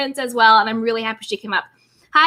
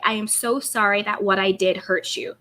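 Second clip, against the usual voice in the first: sincere apology; 4 semitones lower, 4 dB quieter than usual. Shown as a demonstration. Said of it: "I'm just gonna say".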